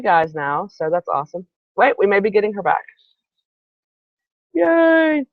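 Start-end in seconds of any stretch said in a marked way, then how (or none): 4.5-5.3 higher, drawn-out little yay; pleased cheer. Real, not acted. Host hoping to get guest back, pleased cheer. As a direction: cheer on one held note.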